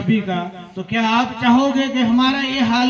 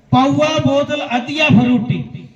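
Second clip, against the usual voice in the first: raised, rhythmic opening line; poem recitation; 5 semitones higher, 3 dB louder than usual. Acted. Poet opens stanza on bottles, high-pitched recitation. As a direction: pitch the verse high and beat it out.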